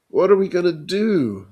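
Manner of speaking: high, loud, panicked. Acted. Johnny pacing in fear, high loud panic. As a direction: blurt it in panic.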